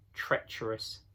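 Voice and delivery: breathed, hushed single word; a soft, secret judgment; whispered verdict. Acted. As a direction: whisper it to yourself. Beaver recalls his private judgment.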